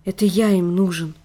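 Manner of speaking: usual speaking voice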